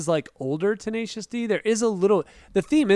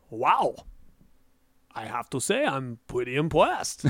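put-on German-accented scientist, softened r's; bad German accent; 3 semitones lower, 4 dB quieter than usual. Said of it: "You should do the accent".

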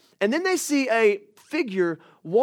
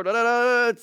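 higher, escalating run of nonsense syllables; mock anxious babble; 5 semitones higher, 4 dB louder than usual. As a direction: let worry spill over into babble. Mimics mounting worried chatter.

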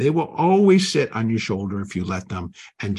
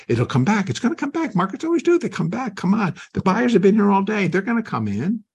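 much higher, pleading hope; hopeful denial; 10 semitones higher, faster than usual. Retold or imitated. Trader refusing to take the stop, pleading high hope. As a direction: talk yourself out of the loss, eager and hopeful.

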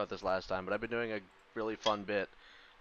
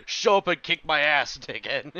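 taunting; 3 semitones higher, 6 dB louder than usual. Retold or imitated. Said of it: "It's fucking".

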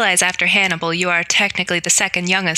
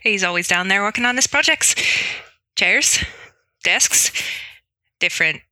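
halting Irish, making it up; Irish accent. Acted. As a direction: stall through a cover story in an Irish accent. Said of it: "do my best Irish accent".

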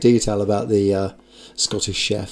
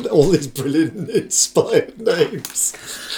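laughing; 4 semitones higher, much slower than usual. Real, not acted. Teasing the made-up names.

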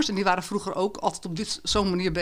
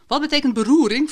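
put-on higher, louder puzzled teen question; teen asking; 7 semitones higher, 5 dB louder than usual. Dylan asking about a museum caption, higher puzzled voice. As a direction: ask it like a baffled schoolboy. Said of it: "vroeg Dylan".

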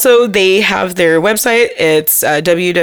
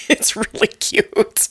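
whispering; 2 semitones higher, 6 dB quieter, slower than usual. Real, not acted. Echoing the hushed aside.

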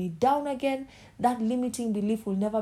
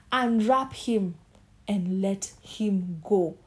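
emphatic proclamation; slower than usual. Acted. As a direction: declare each word with force. Preaching climax, emphatic.

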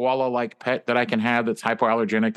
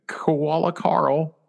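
slow proud introduction; 6 semitones higher, much slower than usual. Acted. Proudly introducing fake koala.

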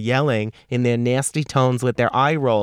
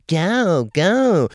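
urging on; 6 semitones higher, 3 dB louder than usual. Retold or imitated. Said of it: "And they're like".

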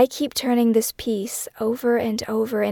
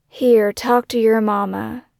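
slow, drawn-out uncle's drawl, a little louder; 5 dB louder, slower than usual. Retold or imitated. Uncle handing the phone to mother, slow drawl. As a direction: stretch every word lazily. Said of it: "he says in a slow drawl".

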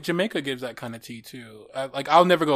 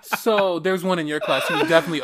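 laughing; 3 semitones higher, 4 dB louder than usual. Real, not acted. Friend laughing as she teases co-host about her class, laughing.

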